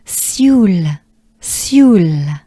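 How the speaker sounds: "sioule" like soul with an E inside, French; slow, drawn-out French sioule; French pronunciation demo. Shown as a demonstration. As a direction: model sioule with a long falling vowel. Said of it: "Let's take a good breath".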